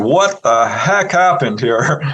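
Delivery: slow, drawn-out disbelief; stretched-out, mock amazement; astonished doctor. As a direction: lightly act a baffled doctor. Retold doctor amazed at the healing.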